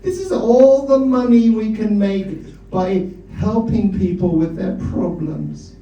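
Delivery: high, slow, hammed-up German accent with an Austrian tinge; bad German accent. Father lecturing his children at the family dinner, in a bad German accent. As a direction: play a pompous Viennese doctor explaining to his kids in a bad German accent. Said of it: "in a bad German accent".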